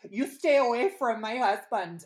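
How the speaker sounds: high, loud mock screech; hammed-up screaming match; imitated screaming. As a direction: act out a jealous wife yelling her warning. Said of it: "they're screaming at each other".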